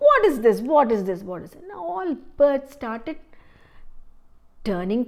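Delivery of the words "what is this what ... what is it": mocking disbelief. Crow mocking the birds' choice.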